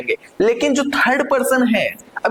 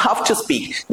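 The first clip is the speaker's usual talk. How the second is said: whispered have to; much slower than usual. Shown as a demonstration. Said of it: "pronunciation की अगर बात".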